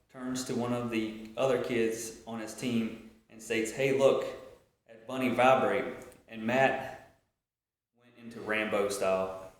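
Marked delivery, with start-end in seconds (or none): 3.7-5.9 louder mocking call, no real laughter; retold jeering. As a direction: imitate a kid poking fun out loud. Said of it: "starts laughing".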